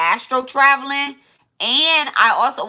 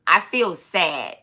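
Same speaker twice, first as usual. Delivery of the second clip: sad inside; 6 semitones lower, slower than usual. Real, not acted. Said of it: "Like, I almost can cry right now".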